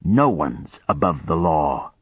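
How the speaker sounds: grated. Acted. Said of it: "he grated".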